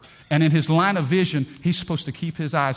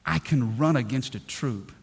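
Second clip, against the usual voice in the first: slow reading; slower than usual. Real, not acted. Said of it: "David said this".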